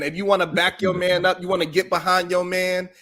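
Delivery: exaggerated cartoon intonation. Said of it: "Why you talking like this?".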